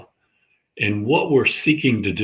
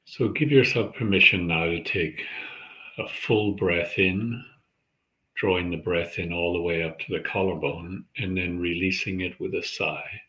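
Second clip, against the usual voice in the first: calm, measured meditation guide; unhurried centering practice, leaving space between phrases; guided meditation. Acted. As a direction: guide listeners gently into their breath, with long pauses.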